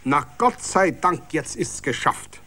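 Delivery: mildly excited late guest calling out relief; excited and elated. A narrator's reading. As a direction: burst in with the good news. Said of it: "aufgeregt und begeistert".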